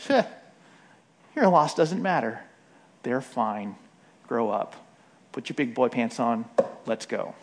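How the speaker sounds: low, offhand brush-off; understated scornful tough-love act; mock unloving dismissal. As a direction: imitate someone callously shrugging off a loss. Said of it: "actually unloving of us to say".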